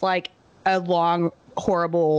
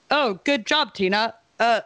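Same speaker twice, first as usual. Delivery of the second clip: imitating his way of talking; 2 semitones higher, slower than usual. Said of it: "but he talks like that".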